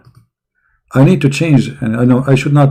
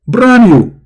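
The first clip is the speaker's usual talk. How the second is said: salesman voice; 8 semitones higher than usual. Acted. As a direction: sell it like a used car dealer. Sarcastic salesman pitch.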